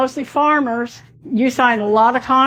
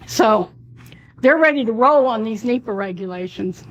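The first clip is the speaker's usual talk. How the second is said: hoarse voice. Real, not acted. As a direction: voice giving out, hoarse and strained. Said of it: "I am losing my voice".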